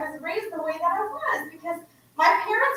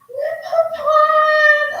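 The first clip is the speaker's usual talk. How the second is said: high, drawn-out tearful cry of a name; shivering cry of joy; 14 semitones higher, 6 dB louder, much slower than usual. Retold or imitated. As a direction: call the name like a long-lost child is back. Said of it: "her voice was shivering".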